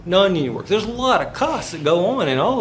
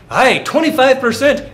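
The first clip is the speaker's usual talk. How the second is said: loud, high-pitched bad Scottish accent; mock Scottish shout; crappy Scottish accent; 10 semitones higher, 10 dB louder than usual. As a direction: bellow it in a hammed-up Scottish brogue. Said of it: "this is my crappy Scottish accent".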